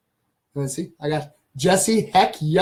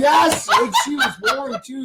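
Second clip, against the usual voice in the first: laughing shout; 10 semitones higher, much slower than usual. Real, not acted. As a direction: gleefully pile on while laughing. Agreeing, laughing loudly.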